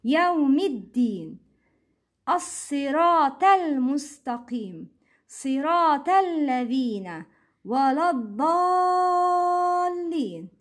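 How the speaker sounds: each phrase joined, as in "Siratal Ladhina"; linked words. Shown as a demonstration. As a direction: drop the hamza inside "Yawmiddin" and "As-Siratal Mustaqim". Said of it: "Don't pronounce Hamzat al-Wasl". (recite connected, stretching "Waladdallin")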